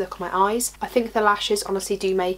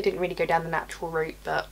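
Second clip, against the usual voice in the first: leaning in to whisper; 3 semitones lower, 5 dB quieter than usual. Real, not acted. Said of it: "trying to lower my voice".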